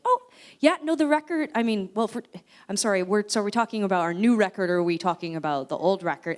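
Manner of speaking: high, loud, amused confusion; baffled. Retold or imitated. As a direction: stammer in amused disbelief.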